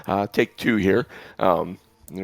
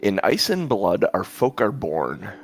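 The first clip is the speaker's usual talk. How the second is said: poem reading; slower than usual. Acted. Reads poem from the book.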